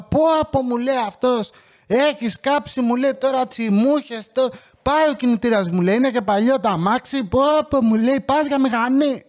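alarmed mechanic. Retold or imitated. Mechanic exclaiming over burnt engine.

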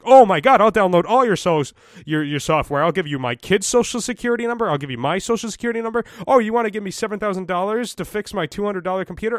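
very high, loud mock panic; panicked gullible boomer. Gullible boomer answering a scam caller, frantic mock alarm.

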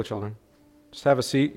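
normal talking voice

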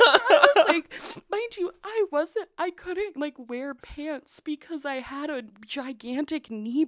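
laughing recalling the knee brace; laughing while talking. Real, not acted. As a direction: still giggling as you explain.

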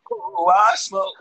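drawn out like a preacher; slow, drawn-out mock preacher; slow preacher imitation. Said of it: "Preacher said".

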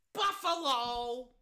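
slow, stretched-out team name; drawn-out call. Real, not acted. Repeating the first-down call for Buffalo, drawn out. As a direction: linger long on each syllable.

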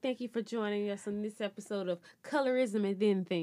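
whispered sign-off with a laugh; breathy giggling outro. Real, not acted.

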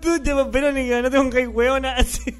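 hammed-up raving, tripping over words; mock frantic outburst. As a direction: babble it out like a man losing it. Acting out a meltdown scene.

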